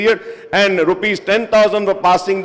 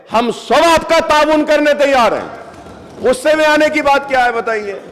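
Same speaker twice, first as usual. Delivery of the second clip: raised, fast and forceful rebuttal; heated retort; 3 semitones higher, much faster than usual. Real, not acted. Legislator answering angry ministers on the floor, raised heated fast voice. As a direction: push back hard over the heckling. Heated reply to heckling members.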